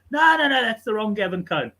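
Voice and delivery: loud high no, no, no, then easing back; mock-insistent correction, lightly voiced; imitating the character.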